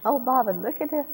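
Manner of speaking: playful Southern belle tone, lightly done; Southern accent. Retold or imitated. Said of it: "talk to him in a southern accent".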